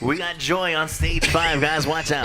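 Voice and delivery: slow, drawn-out club announcer; strip club announcer. Retold or imitated. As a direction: hype the next dancer on stage. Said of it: "uh, announcer voice".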